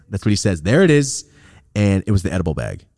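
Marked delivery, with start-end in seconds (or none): 0.6-1.3 a bit higher, pleased with himself; mock cop gotcha, repeated.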